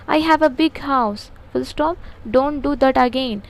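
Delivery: slow, word-by-word dictation read. Shown as a demonstration. Teacher dictating a model answer to students, very slow and deliberate. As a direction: spell it out slowly so they can write.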